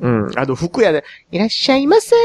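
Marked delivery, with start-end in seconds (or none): 1.3-2.1 high chirpy shop clerk greeting; bright loud shop welcome. Retold or imitated. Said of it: "みたいなやつおるじゃないですか".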